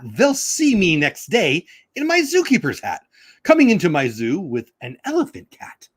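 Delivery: sing-song Seuss reading, drawn out in places; storybook reading. Acted. Reading Dr. Seuss aloud to viewers, bouncy storybook voice. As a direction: read it like a picture book for kids.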